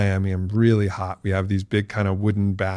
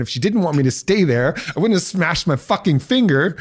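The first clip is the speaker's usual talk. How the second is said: mock frustrated outburst; 7 semitones higher than usual. Retelling anger at wife.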